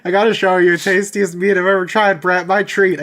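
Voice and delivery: a hint of a German accent slipping in, eager and merry; weird German-ish accent. Player character inviting his sworn friend out, mild German-ish accent. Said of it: "The accent just gets me".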